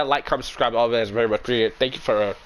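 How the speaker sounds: hoarse sick voice, worn out. Real, not acted. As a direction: talk through a sore throat. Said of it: "my sick voice".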